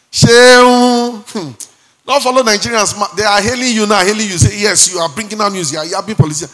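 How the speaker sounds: high, loud sing-song comic warning; mock comedian warning. Comedian Agudai warning Shehu, loud sing-song mock voice. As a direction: tease him like a stage comedian. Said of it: "Agudai was saying".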